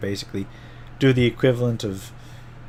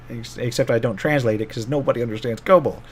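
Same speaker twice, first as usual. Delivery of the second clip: ordinary talk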